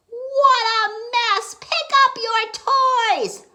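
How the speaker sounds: high, loud, slow scold; exasperated mother yelling at messy kids. Acted. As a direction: nag them to tidy up, loud and high. Gertie scolding the children.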